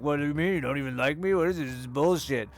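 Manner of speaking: a mocking imitation of an outraged date; mock indignant outburst. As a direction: ham up their hurt anger. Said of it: "And then they're like".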